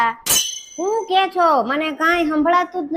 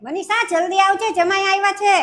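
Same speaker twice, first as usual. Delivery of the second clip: raised-pitch summons across the house; calling out; 4 semitones higher than usual. Acted. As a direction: call to someone in another room, pitched higher. Mother-in-law calls Manisha from elsewhere. (બીજા રૂમમાં બૂમ પાડીને બોલાવવું)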